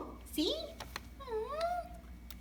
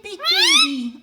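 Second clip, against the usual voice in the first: higher, louder, beaming at the bird; excited high coo; 13 dB louder, slower than usual. Real, not acted. Owner gushes at her excited parrot, high and loud. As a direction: gush with excitement.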